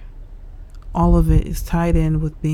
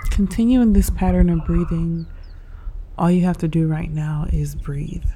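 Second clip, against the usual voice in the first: unhurried meditation guide with long pauses; guided meditation; 4 dB quieter than usual. Real, not acted. Host guiding listeners through breathing and stretches, calm meditation delivery. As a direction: lead them calmly through each breath, leaving space.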